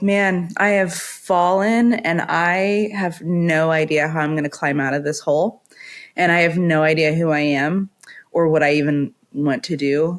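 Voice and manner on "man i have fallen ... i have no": ordinary delivery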